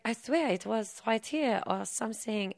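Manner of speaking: flustered, hunting for the lost briefcase; nervous excuse. Retold or imitated. Wife caught losing the manuscript, nervously excusing herself. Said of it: "And she's like".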